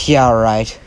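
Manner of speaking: low, dismissive scoff; understated sarcastic scoff. Acted. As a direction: brush it off with mild disbelief. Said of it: "kinda scoffs and says".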